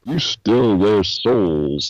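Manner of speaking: slow line leaning on "souls"; too much emphasis on souls. Retold or imitated. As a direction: drag out "souls" at the end. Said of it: "way too much emphasis on souls".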